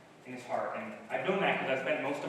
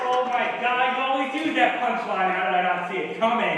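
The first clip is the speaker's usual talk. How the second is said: amused outburst; 9 semitones higher, 12 dB louder than usual. Real, not acted. Laughing at punchline.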